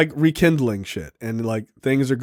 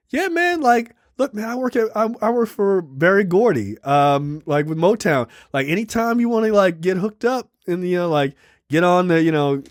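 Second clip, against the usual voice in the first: much higher, eager hype-man voice; Big Tank voice; 5 semitones higher than usual. Retold or imitated. A record-label hustler pitching to a musician, lightly voiced and eager. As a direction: play the friendly hookup guy offering connections.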